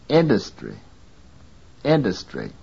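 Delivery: INDUSTRY stressed on IN, dus reduced; reduced vowel. Shown as a demonstration. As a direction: let DUS shrink to a weak schwa in INDUSTRY. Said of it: "is weakly stressed".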